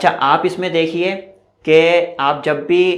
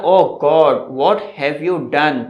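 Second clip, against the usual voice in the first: mock dismay; much slower than usual. Shown as a demonstration. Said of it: "तो यहाँ पे क्या बोला?".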